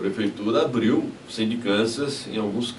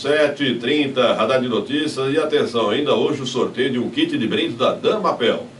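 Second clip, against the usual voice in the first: radio announcer read. Real, not acted. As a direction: announce it to the radio audience, stretching the time. Radio time check and sponsor read.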